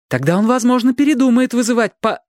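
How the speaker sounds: high, pressing plea cut short; high urgent reasoning, broken off; urgent persuasion. A narrator's reading.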